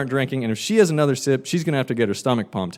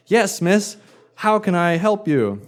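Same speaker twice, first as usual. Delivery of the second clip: eager server; 6 semitones higher than usual. Retold or imitated. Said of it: "I'm like".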